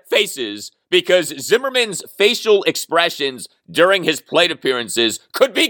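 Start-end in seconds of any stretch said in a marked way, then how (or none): 0.1-0.7 faces said low and soft, set apart; faces, quiet and low; stress on faces. Shown as a demonstration. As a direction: lean on the word faces, dropping it down. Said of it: "And I emphasize that word".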